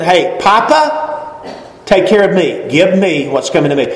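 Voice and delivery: a hint of a begging child; whiny son. Prodigal son asking his father, mildly whiny. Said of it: "He goes to his daddy and he says".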